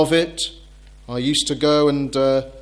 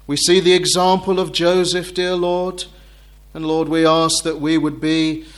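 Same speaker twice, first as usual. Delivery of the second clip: earnest, reverent closing prayer. Acted. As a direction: pray it humbly before the congregation. Closing prayer after "Let's pray.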